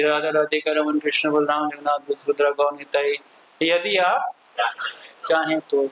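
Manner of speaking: imitated temple announcement, evenly recited names; मंगल आरती announcement. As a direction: recite it like a morning announcement, pausing before the last words. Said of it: "announcements होती हैं". (आरती की घोषणा की नकल)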